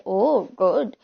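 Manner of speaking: mock praise meant as a taunt; sarcastic taunt. Shown as a demonstration. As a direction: say it as a jibe, slow and low. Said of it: "taunt मारने के लिए भी good बोलते हैं".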